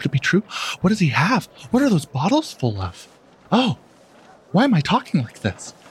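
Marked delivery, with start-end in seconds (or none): 0.0-3.1 hushed murmur, much higher pitch. Voicing a murmuring crowd's questions, in hushed tones. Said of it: "it's hushed tones".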